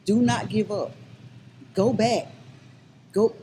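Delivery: rousing call. Real, not acted. Urging abuse survivors not to quit.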